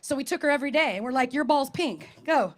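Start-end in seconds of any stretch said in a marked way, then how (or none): 1.3-2.5 calling a dog. Retold or imitated.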